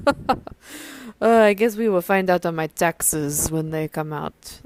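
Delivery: put-on a light, tentative Jewish accent on the lawyer's reply. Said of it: "if that was a good Jewish accent".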